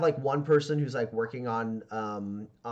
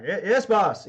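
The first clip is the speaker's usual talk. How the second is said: higher and louder stammering yes; jittery underling answering fast; nervous henchmen; 8 semitones higher, 10 dB louder than usual. Acted. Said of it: "And they're all like".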